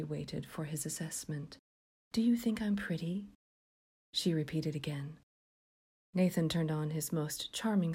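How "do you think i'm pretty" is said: eerie whispered question; barely audible, creepy hush. A narrator's reading. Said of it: "as she quietly asked".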